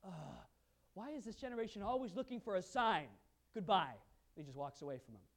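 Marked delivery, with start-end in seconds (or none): 0.0-4.0 a touch of a weary sigh; Jesus tired of demands for signs. Retold or imitated. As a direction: dismiss them wearily. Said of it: "They said".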